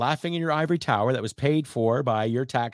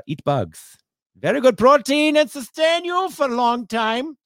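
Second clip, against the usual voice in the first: put-on terrible German accent. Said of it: "I know it's a terrible, uh, German accent".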